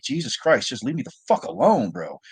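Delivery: mock fed-up complaint; retold exasperation. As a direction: act out being pestered past patience. Retelling annoyance at constant update calls.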